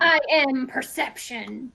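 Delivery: epic narrator voice. Acted. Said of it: "repeat everything you say in a semi-epic, weird voice".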